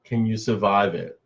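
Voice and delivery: slow, drawn-out ominous title read; mock somber. Streamer pitching a show name to viewers, mock somber. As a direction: announce it like a grim show title, slowly. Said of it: "that sounds a little somber".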